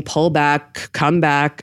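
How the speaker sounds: normal talking voice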